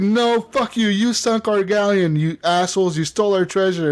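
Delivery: retold accusation. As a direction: pile on the accusations, playfully indignant. Retold quarrel, accusing back.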